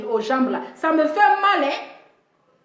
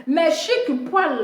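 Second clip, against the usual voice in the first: slow lament; much slower than usual. Acted.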